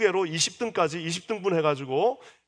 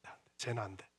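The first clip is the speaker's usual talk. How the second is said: much softer, lower, sneering; contemptuous dismissal; 7 semitones lower, 16 dB quieter than usual. Acted. Someone belittling a person, soft contemptuous muttering. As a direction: mutter it with quiet scorn. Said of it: "이런 거 있잖아요".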